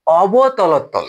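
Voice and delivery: অবতলতল stretched very slowly; drawn out. Shown as a demonstration. Teacher introducing a term to students, very slow. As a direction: sound out অবতলতল syllable by syllable. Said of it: "teacher drills the new term".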